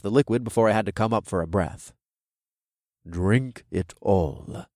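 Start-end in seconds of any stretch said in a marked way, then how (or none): 3.1-4.7 stern urging. A narrator's reading. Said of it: "Amon urged".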